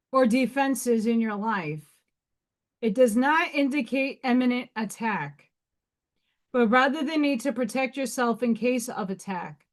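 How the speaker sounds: even reading voice; reading a rune interpretation out; reading aloud. Acted. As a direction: read the rune card text aloud. Reads rune meaning aloud.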